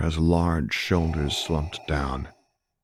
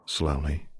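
plain reading voice

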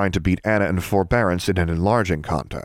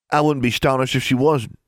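put-on taunting boy; 6 semitones higher than usual. A narrator's reading. Mordecai taunting the girls.

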